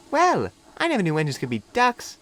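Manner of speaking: put-on a young engine shyly making friends; little diesel meeting Duck, high and eager; friendly little diesel. A narrator's reading. Philip high voice.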